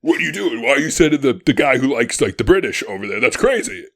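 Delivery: loud, exasperated retelling of an angry protest; Jefferson, super angry. Retold or imitated. Host imitating Jefferson scolding Washington over sending John Jay, mock angry. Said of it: "like, super angry".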